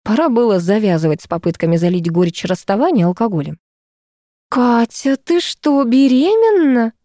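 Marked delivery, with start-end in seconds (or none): 4.5-6.9 joyful squeal. A narrator's reading. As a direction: squeal it out, thrilled at the news. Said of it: "радостно взвизгнула".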